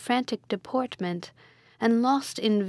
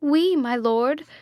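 cried out; 5 semitones higher, 5 dB louder, slower than usual. A narrator's reading. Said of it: "cried they with one voice".

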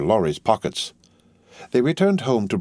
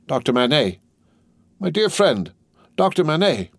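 high-pitched calling to a friend; raised, pleading address; urgent appeal; 8 semitones higher than usual. A narrator's reading. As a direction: call his name to rouse him. Lorry tries to rouse the doctor.

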